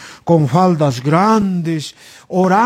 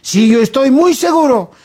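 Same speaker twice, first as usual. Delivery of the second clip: firm insistence; 4 semitones higher than usual. Acted. Alan insists on his choice.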